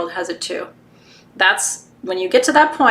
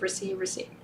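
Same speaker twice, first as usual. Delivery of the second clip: soft high call; 11 semitones higher, 15 dB quieter than usual. Acted. Sending energy, guiding.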